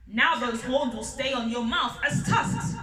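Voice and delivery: growl. Acted. Lion growling at greedy Elephant, angry. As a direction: growl the punishment out. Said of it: "he growled".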